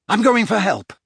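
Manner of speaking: high, loud call over the howling wind; shouting over wind. Acted. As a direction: shout it for help across the storm. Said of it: "he shouted at the others".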